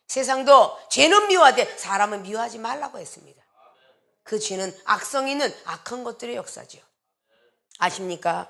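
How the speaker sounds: ordinary delivery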